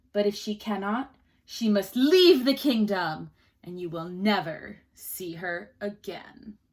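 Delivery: commanding king, slowing and swelling on the threat; stern king. Acted. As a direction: lay down the law as a harsh king. Stern king lays down terms.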